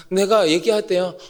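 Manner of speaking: ordinary delivery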